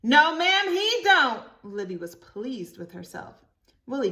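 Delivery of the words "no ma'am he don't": much higher, louder reply; child voice. Acted. Libby answering the teacher, high and loud. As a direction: answer brightly.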